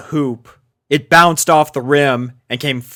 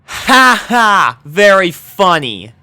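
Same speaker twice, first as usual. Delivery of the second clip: dry; 8 semitones higher, 6 dB louder, slower than usual. A narrator's reading. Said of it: "Dash replied dryly".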